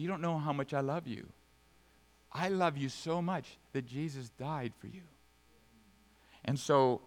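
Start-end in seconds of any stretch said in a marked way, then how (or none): 0.0-5.0 grieved tenderness. Acted. It grieves the heart of God.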